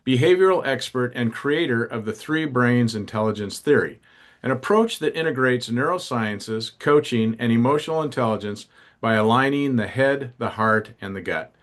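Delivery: lively scripted guest introduction; polished show-opening read; podcast host introduction. Acted. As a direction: announce the guest with energy.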